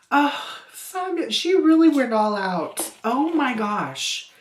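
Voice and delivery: high, loud burst of delight; real delight. Real, not acted. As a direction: gush excitedly over a gift. Delighted reaction to a gift.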